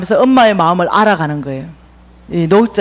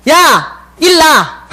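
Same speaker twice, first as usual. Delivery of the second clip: mock yell; 5 semitones higher, 4 dB louder, much slower than usual. She yells at homeless friend.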